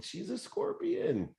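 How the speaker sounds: very high, slow squeal on scorpion; mock squeal. Real, not acted. Husband jokes his wife is a scorpion, high and slow. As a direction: hit scorpion way up high as a joke.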